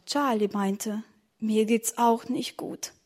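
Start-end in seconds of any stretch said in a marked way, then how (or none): 1.4-2.9 sickly. Acted. Feeling sick after eating.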